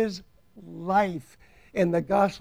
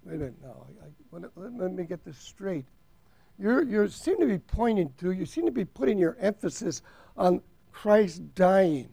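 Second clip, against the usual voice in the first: hushed, skeptical questioner cutting in; doubting listener. Pretend. Preacher voicing a skeptic who questions his point, hushed.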